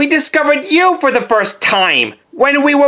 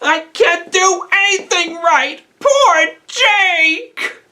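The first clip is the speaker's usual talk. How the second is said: tearful self-blame; 3 semitones higher, slower than usual. Acted. Still mourning Jake, blaming himself.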